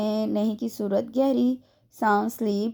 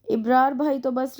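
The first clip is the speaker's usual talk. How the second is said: a slow, grumbled complaint about brother; grumbling; 4 semitones higher, 3 dB louder than usual. A narrator's reading. Sister grumbles about Ibrar, slow and fed up. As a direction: sigh it out under your breath. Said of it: "रक्षी बड़बड़ाते हुए उठी".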